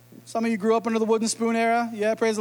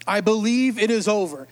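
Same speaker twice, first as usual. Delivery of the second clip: 1 resigned belief. Shown as a demonstration. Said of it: "Do you hear the difference in those two phrases?".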